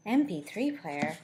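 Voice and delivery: slow, rising disbelief at the dated gadget; incredulous question. Real, not acted. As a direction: question it like you can't believe it. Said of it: "When was this written?".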